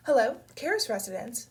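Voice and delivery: lightly voiced Greek-accented woman answering the phone; a hint of a softened Greek accent; soft Greek accent. A narrator's reading. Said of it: "muffled voice, the words softened by a Greek accent".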